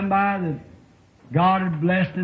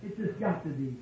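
mock pleading; 8 dB quieter than usual. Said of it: "I would say".

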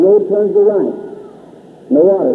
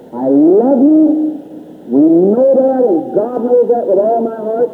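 tender plea; slower than usual. Retold or imitated. Preacher tells brethren he loves them.

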